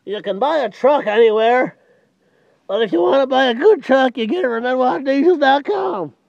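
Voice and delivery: slowed down, with a pause after each phrase; deliberate, unhurried repeat of the pitch. Shown as a demonstration. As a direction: spell it out slowly for the slow learners. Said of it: "let me say it slower".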